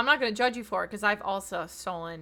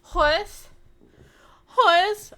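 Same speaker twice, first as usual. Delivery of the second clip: loud, high call lifting at the end; high rising shout of the name; Nicole Byer; 10 semitones higher, 11 dB louder than usual. Retold or imitated. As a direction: holler the name like a greeting. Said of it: "that's how she says it".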